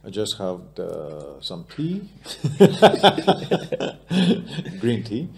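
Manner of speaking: lightly South African-accented English, with a touch of British. Shown as a demonstration. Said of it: "Έχεις νοτιοαφρικανική προφορά στα αγγλικά σου". (ελαφριά νοτιοαφρικανική προφορά στα αγγλικά)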